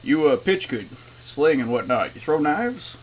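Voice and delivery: lightly voiced janitor, a bit clearer; mildly mumbly but understandable; Mumbling Jim. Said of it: "that's why they call me Mumbling Jim".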